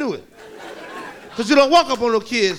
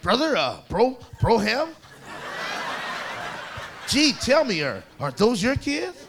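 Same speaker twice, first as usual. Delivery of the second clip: slow, halting, awkward questioner; hesitant mock white-guy voice, feeling out each word; white guy impression; 4 dB quieter, slower than usual. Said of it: "some white guy asked me".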